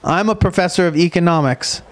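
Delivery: steady reading of a research summary; reading aloud. Acted. Host reading a professor's findings to cohost, measured reading voice. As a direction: read it out like an abstract.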